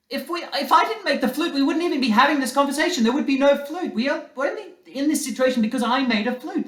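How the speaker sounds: put-on upset boy insisting he made the flute; whiny child. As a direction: wail it like a child cheated of his toy. Child protests unfairness of flute.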